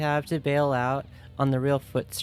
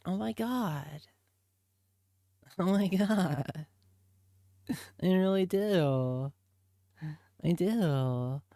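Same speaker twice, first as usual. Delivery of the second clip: giggly fan; 3 semitones higher, slower than usual. Retold or imitated. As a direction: melt into giggles over the band. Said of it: "and I was like".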